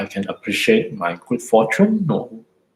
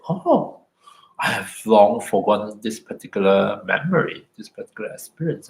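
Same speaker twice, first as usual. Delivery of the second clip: gentle surprise. Shown as a demonstration. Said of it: "I say".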